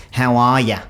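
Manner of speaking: exaggerated Aussie "how are ya"; overdone Australian. Shown as a demonstration. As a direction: lay the Australian vowels on thick. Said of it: "I will sometimes overdo it".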